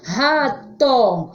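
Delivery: "Rato" starting with an h sound; strong R. Shown as a demonstration. Teacher analyses the word for pupils, strong h-like R in "Rato". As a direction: split "Rato" into syllables, R pronounced as H. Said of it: "som forte".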